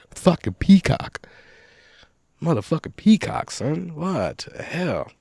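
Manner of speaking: high, slow, stretched squawk like a peacock; a rough stab at a peacock call; peacock cry impression. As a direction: screech it out like a peacock. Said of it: "That's what they sound like".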